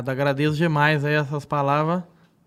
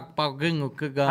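imitating the lisping character; 5 semitones lower, 6 dB quieter, slower than usual. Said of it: "Ele fala".

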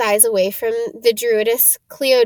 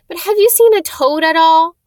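tearful; 7 semitones higher, 6 dB louder than usual. Acted. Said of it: "He looked tearful".

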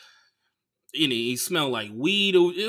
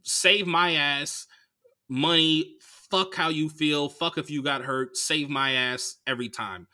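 mocking the foreigners; slower than usual. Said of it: "a thing that I hate that foreigners do".

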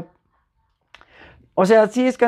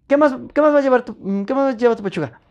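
brusque, fast and a touch higher, imitating a rude waitress; mock-rude server snapping at a customer, fast and higher; 4 semitones higher, faster than usual. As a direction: rattle it off impatiently like you can't be bothered. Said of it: "Así, pero así, mal, mal".

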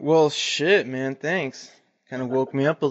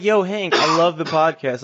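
eager fan, pitched up; 4 semitones higher than usual. Retold or imitated. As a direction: gush like an excited fan. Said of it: "'Cause they're like".

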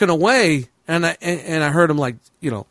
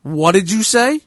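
De Niro tough guy. Retold or imitated. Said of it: "Bobby De Niro kicks in".

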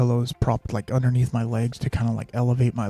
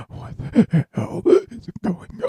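higher, slow, breathless gasped question; panicked gasping; 7 semitones higher, much slower than usual. Retold or imitated. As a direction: gasp it out like you can't breathe. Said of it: "that's how I was talking".

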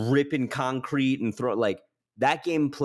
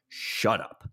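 under-the-breath whisper; whispered shut up, flat and done; whispered dismissal; 2 semitones lower than usual. Retold or imitated. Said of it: "And I'm like".

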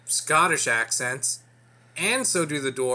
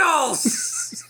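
high screeching lich, much louder; ancient lich voice; 4 dB louder than usual. Acted. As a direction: cry it out like an undead sorcerer. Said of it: "Gilbert Godfrey is the Lich".

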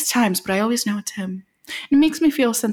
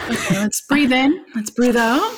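calm crisis counselor; 3 semitones higher than usual. Acted. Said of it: "This is my therapist's voice".

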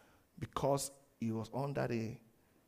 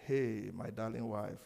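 slow, low affectionate greeting; tender endearment; 4 semitones lower than usual. Acted. Husband answering anger with a hug, slow and tender. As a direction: act out a husband soothing his wife, slowly. Husband's loving response acted out.

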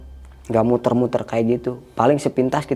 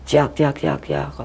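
imitated chick cry; 3 semitones higher, much slower than usual. Retelling the noise over the tent, imitated chick cry. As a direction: chirp like a chick, lightly. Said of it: "kedengaran suara kayak ayam".

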